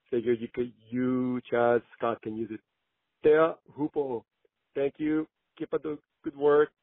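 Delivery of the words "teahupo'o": Teahupo'o as tay-ah-hoo-po-oh, higher; higher, careful Teahupo'o; proper pronunciation. Shown as a demonstration. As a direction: say Teahupo'o fully, with a long final o. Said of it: "to say it properly".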